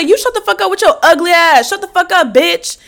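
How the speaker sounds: loud, high-pitched insult; mock angry comeback. Storyteller replaying her comeback to a rude driver, mock angry. Acted comeback in shouting match.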